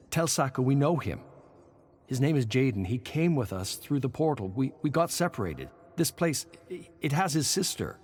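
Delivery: high, loud, urgent pleading; urgent plea. A narrator's reading. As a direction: rush it out, begging them to listen. Surin urgently pleads for Jaden.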